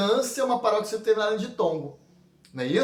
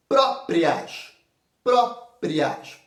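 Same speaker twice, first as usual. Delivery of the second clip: Próprias said slowly with the stress on PRÓ, falling; syllable emphasis; 3 dB louder, much slower than usual. Shown as a demonstration. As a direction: stretch out Próprias, leaning on PRÓ. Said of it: "Próprias é uma paroxítona".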